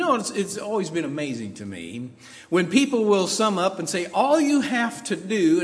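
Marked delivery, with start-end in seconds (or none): 4.1-5.6 all you have to do, with do underlined; stress on do. Shown as a demonstration. Preacher underlining do to the congregation. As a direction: do leaned on, slow. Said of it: "I want to underline that word do".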